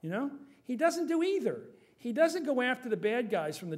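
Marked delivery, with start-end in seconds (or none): 0.6-1.6 sharply raised, louder exasperation; emphatic. Real, not acted. Pundit complaining about Obama, exasperated and loud. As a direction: stress it up high like a complaint.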